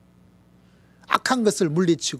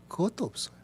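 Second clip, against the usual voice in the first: whispered denial; 4 semitones higher, 5 dB quieter, faster than usual. Acted.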